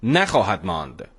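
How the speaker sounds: measured verse recitation, falling at the close; poem recital. Acted. Host opens the radio show with a verse, poem recital. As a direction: recite the couplet as a show opener.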